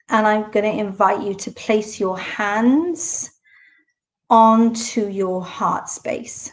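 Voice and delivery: unhurried meditation guide, long pauses between instructions; guided meditation. Real, not acted. Meditation host inviting listeners to settle into the body, unhurried guiding voice. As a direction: ease them into stillness, phrase by phrase.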